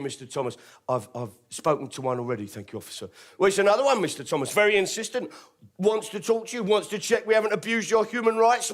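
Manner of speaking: ingratiating police officer. Retold or imitated. Officer voiced in story.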